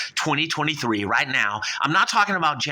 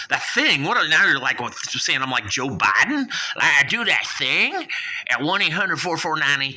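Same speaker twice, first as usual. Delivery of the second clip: indignant; 4 semitones higher than usual. Acted. Shark taking offence at the girls' innuendo, indignant. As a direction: bristle at the insinuation, voice jumping up.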